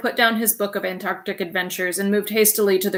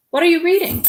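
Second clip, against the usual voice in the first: Mrs Popper voice; 9 semitones higher, 5 dB louder than usual. Acted. Wife asks husband.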